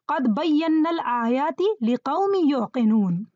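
fast, rhythmic Arabic verse recitation; quran recitation. Shown as a demonstration. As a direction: recite the verse swiftly in one flow. Quoting a verse as example.

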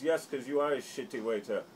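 lightly voiced taunting action star; mild hammed-up sneer; mocking bully voice. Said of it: "He goes".

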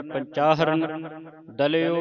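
slow, ਪੰਚਾਹਰਨ unbroken, then ਦਲਿਓ separately; ਪੰਚਾਹਰਨ read as one word. Shown as a demonstration. Teacher showing word division, ਪੰਚਾਹਰਨ joined and ਦਲਿਓ separate. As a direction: join all of ਪੰਚਾਹਰਨ, set ਦਲਿਓ apart. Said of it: "ਇਹ ਇਕੱਠਾ ਹੀ ਪੜ੍ਹਨਾ ਹੈ".

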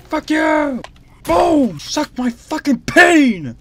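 loud, slow gloating taunt; taunting a beaten enemy; trash-talk yell. Real, not acted. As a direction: rub it in, full voice. Trash talk after kill.

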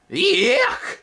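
very high, loud disgusted squeal. A narrator's reading. Spindlebug tasting Twig, high disgusted squeal. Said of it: "squealed the spindlebug".

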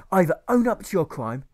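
loud rasping howl. Acted. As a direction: yowl it out madly. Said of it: "he yowls and howls".

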